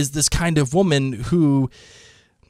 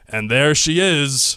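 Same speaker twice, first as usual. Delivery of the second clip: slow, drawn-out boat owner's reveal; husky announcer; slower than usual. Retold or imitated. Boat owner presents River Run on arrival, imitated husky voice. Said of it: "had this low, husky voice".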